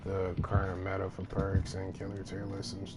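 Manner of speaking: sick, straining through soreness; talking through a sore throat; hurts to talk. Real, not acted. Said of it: "It hurts to talk right now".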